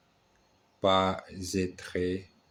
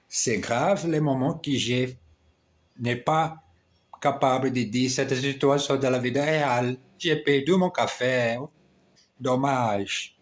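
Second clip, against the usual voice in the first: flustered; 4 semitones higher than usual. Real, not acted. Laments lost coffee again.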